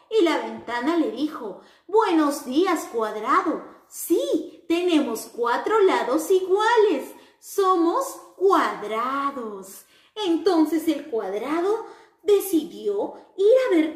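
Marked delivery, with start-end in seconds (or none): 1.9-9.8 put-on sing-song greeting for children; cheerful square character. Window answers the square.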